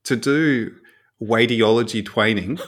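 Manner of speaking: "radiology training" with each R as W; imitated speech impediment, W for R in "radiology training"; can't say R. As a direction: say "radiology training" as "wadiology twaining". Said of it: "they couldn't say the letter R".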